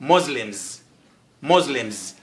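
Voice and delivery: Muslims with a buzzed Z in the middle; correct pronunciation. Shown as a demonstration. Teacher repeating for learners, Muslims with a Z sound. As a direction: repeat Muslims as MOZ-lims, falling. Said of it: "لكن نقول Muslims".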